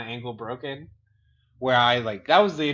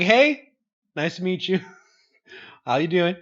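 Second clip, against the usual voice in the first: perky greeting; 5 semitones higher, 3 dB louder than usual. Retold or imitated. Sick patient perkily greets doctor.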